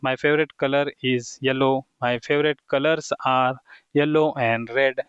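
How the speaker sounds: slow model sentences; slow dictation. Shown as a demonstration. Teacher modelling names for students, slow and deliberate. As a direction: spell it out slowly for beginners.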